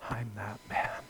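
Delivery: soft, low first take of the line; quiet confession. Acted. Preacher voicing the sinner's quiet confession. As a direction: murmur it to yourself.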